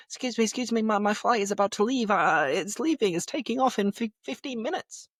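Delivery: high, hurried, flustered pleading; mock panic, stumbling over words; panicked queue-jumper. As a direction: act out a traveller frantic to get past. Acting out a panicked late flyer.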